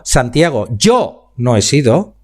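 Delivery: "yo" stressed, with "yo no he sido" slow and rising at the end; rising question on yo. Shown as a demonstration. Speaking coach showing students how intonation changes meaning, rising slowly. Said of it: "en donde yo ponga la velocidad y la entonación".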